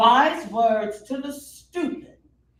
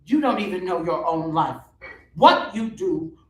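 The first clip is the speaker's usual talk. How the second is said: demonic voice; 7 dB louder than usual. Acted. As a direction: let the demon rise through the words. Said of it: "a demonic voice spews forth".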